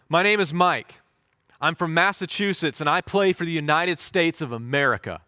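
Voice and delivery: calling out proudly. Retold or imitated. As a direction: shout your name to the coach with pride. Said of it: "calls out".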